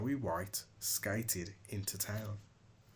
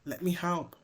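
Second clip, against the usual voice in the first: kind offer; 2 semitones higher than usual. Acted. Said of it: "offered Snowy White".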